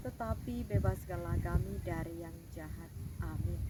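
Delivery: steady, devout recital of the Lord's Prayer; prayer recitation. Acted. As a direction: lead the children in prayer. Leads the Our Father. (doa Bapa Kami yang khidmat)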